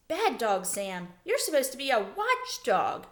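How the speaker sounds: put-on girl on the trampoline scolding her dog, lightly; mild scolding. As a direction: tick off the lazy dog. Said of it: "began to scold Sam".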